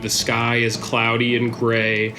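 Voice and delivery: steady storyteller setting the scene; scene narration. A narrator's reading. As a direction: narrate the world like a game master. Game master scene narration.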